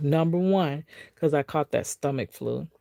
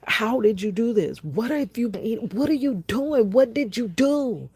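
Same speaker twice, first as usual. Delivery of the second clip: high, rapid string of disbelieving questions; alarmed doctor; 7 semitones higher than usual. Retold or imitated. Doctor questioning patient about her A1C, alarmed disbelief. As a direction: grill the patient in shock. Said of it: "the doctor's like".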